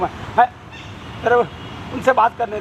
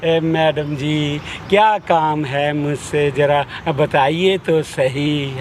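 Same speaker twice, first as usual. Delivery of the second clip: slow, teasing over-courteous drawl; husband mockingly humours wife, slow and exaggerated; mock politeness; 5 semitones lower, much slower than usual. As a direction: stretch it out to mock her. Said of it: "please मजाक मत करो".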